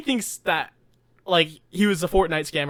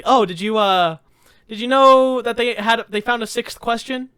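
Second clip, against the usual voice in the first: lightly higher, teasing question; mock teasing setup; 4 semitones higher, 4 dB louder than usual. Retelling the joke setup to Jordan, mildly teasing. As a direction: dangle the bait with a grin. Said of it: "he was genuinely, like, surprised".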